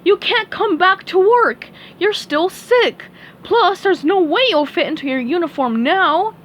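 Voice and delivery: high, loud gruff crab boss; Mister Krabs voice. Acted. Mister Krabs turning SpongeBob away, high loud boss voice.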